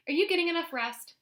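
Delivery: high, fussing grandma voice; mother a grown daughter at dinner; bossy grandma. Acted. Grandma fussing over Mama.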